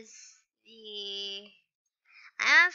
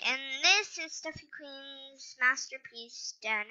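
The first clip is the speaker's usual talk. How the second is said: yawning. Real, not acted. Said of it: "Sorry, I'm just yawning".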